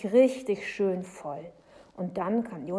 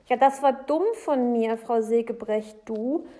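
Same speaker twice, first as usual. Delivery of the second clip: loud, raised pleading; imploring; 4 semitones higher, 9 dB louder than usual. A narrator's reading. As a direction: plead with her, owning up. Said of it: "sagt Jonathan beschwörend".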